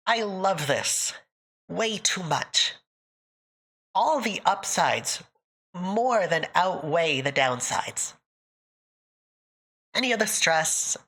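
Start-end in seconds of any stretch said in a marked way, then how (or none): 0.1-8.1 slow, sincere admission; heartfelt, drawn-out delivery; fully honest. Real, not acted. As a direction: say it slowly and mean every word. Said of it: "I'm being fully honest".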